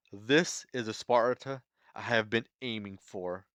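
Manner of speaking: lightly acted stoic warrior, measured and deliberate; understated heroic monologue in short, separated phrases; Leonidas's resolute speech. Leonidas's cigar-lit speech, acted out.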